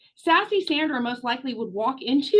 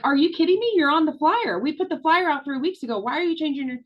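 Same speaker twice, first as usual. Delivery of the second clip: tenacious pushback; faster than usual. Retold or imitated. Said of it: "Tenacious Tammy would be like".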